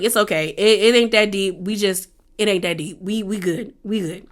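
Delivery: low, quiet, soothing murmur; soft reassurance. Retold or imitated. He comforts her after she starts crying, soft reassurance.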